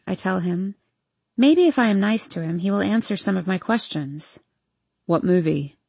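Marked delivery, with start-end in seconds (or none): 5.1-5.8 a hint of a drunk young man; town drunk. Hardin's voice.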